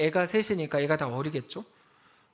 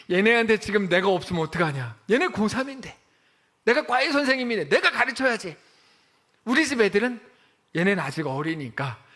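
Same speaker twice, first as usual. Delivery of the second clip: mock the mother defending her tutoring; self-justifying mother; 3 semitones higher, 5 dB louder than usual. Mother explaining why her students come before her kids. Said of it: "뭐 이렇게 하는 거죠".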